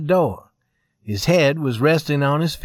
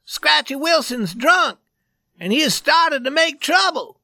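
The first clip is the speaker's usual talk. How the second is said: urgent alarm; 12 semitones higher than usual. A narrator's reading. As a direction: burst in with a panicked warning. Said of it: "He cried".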